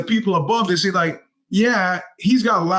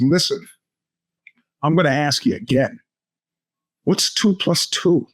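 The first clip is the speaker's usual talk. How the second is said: menacing. Retold or imitated. Teacher Phil threatening the class with a mild menace. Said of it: "voice dripping with menace".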